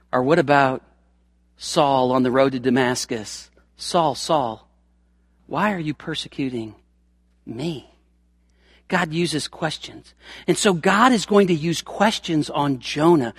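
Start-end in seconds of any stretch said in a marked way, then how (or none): 3.8-7.9 much softer, hushed and pleading; soft divine call. Acted. Jesus calling Saul on the road, hushed. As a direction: call him gently from far away.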